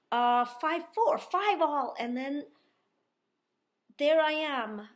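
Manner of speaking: reliving every point as the tension climbs; rising excitement. Retold or imitated. Player retelling a tight second set, building excitement. Tense score count building.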